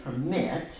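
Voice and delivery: "Permit" as a verb, per-MIT; stress on second syllable. Shown as a demonstration. Teacher asking where the accent was, "Permit" stressed on MIT. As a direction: put the weight on MIT in "Permit". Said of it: "Where was the accent on this verb".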